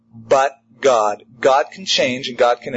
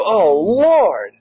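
grateful believer; 4 semitones higher than usual. Retold or imitated. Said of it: "You go".

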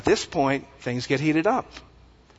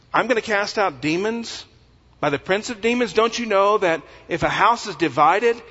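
higher-pitched, incredulous argument; indignant; 5 semitones higher than usual. Acted. Jesus rebutting his accusers about casting out demons, indignant. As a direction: reason with them as if it's absurdly obvious. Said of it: "I love his indignance".

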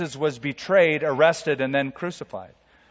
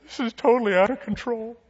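mock panic; 6 semitones higher than usual. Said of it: "does that sound to you like a man who looks around and goes".

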